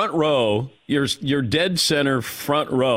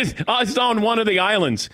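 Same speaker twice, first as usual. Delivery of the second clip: quick, higher vague brush-off; evasive friend; 7 semitones higher, faster than usual. Retold or imitated. Host dodging the friend's question, in a quick evasive brush-off. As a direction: dodge the question breezily. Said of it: "he said".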